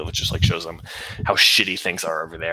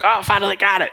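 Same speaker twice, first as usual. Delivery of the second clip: Moog triumphant; 12 semitones higher, 4 dB louder than usual. Retold or imitated. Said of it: "and then he's like".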